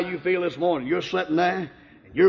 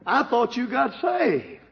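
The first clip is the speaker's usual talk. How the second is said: tearful; 5 semitones higher, slower than usual. Retold or imitated. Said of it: "My wife began crying and she said".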